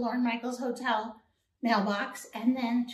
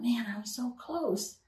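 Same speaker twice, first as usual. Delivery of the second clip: whispered regret; 5 dB quieter than usual. Retold or imitated. Disappointed thought on the flight.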